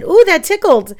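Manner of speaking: high, loud giggly ooh; delighted. Retold or imitated. Teacher pretending the fairy tickled her face, high and delighted. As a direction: squeal as if tickled.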